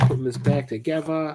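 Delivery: slipping into a British accent. Talking to an audience while putting something back together: British accent. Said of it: "Now I'm British".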